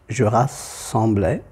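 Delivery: "rassemblais" with the double S held long; slow "rassemblais", leaning on the geminated S; lengthened double S. Shown as a demonstration. Teacher showing the accent tonique, double S lengthened in "rassemblais". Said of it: "un allongement sonore ou phonétique".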